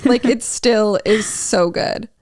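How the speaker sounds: emotional, slowed-down gushing. Real, not acted. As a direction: swoon over the song. Fangirl, cry heard, slow.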